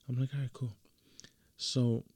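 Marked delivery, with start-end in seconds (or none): 0.3-0.7 soft whispered okay; whispered agreement. Retold or imitated. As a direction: agree under your breath. Agreeing quietly, secret plan.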